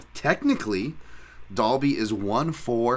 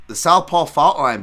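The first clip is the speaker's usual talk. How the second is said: hype announcement; 7 semitones higher, 11 dB louder than usual. Acted. Announcing a recurring segment.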